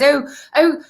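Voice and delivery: lightly mocked Mary Poppins English accent; imitated English accent, Mary Poppins style. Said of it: "like, very Mary Poppins".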